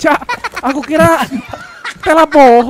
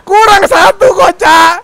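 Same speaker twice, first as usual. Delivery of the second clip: urgent shout; 6 semitones higher, 6 dB louder, slower than usual. Real, not acted. Urgent shout while crafting.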